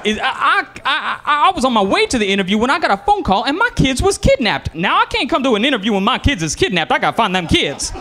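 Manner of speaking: high, hammed-up stammering caller; frantic caller excuse. Job applicant claiming his kids were kidnapped, mock-frantic high voice. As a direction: stumble in, then rush out a wild excuse in a high voice.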